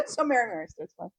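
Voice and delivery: laughing. Real, not acted. Echoing the line, laughing.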